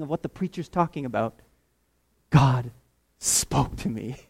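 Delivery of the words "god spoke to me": ordinary talk, nothing marked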